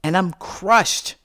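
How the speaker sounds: ordinary delivery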